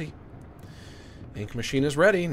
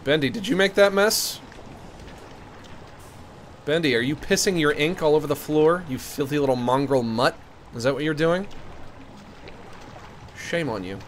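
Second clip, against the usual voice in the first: scolding a dog. Pretend.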